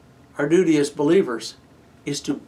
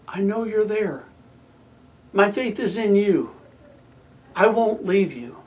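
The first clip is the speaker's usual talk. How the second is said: quiet trust. Acted. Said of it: "the lament changes on the word, "but".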